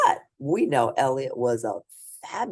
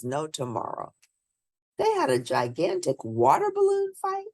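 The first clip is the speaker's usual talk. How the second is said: put-on lively read-aloud voice for children; storybook reading; 2 semitones higher than usual. A narrator's reading. Reading a picture book aloud to children, lively storybook narration. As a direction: bring the bedtime story to life for little listeners.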